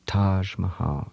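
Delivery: Taj Mahal murmured softly and slowly; hushed, slow, reverent Taj Mahal; said quietly. Shown as a demonstration. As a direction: savour Taj Mahal like a secret. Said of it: "just say them quietly to yourself".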